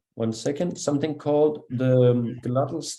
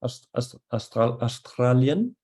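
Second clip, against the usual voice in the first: rolled Spanish R. Retold or imitated. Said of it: "Spanish speakers, they will say".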